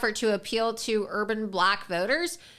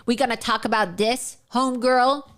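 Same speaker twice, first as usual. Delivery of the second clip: mocking slang imitation. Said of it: "talk like this".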